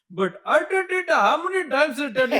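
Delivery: high-pitched, exasperated protest; squeaky indignant ranting; mock exasperation. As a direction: complain in a high, hammed-up voice. Mock protest about fake Indian accent.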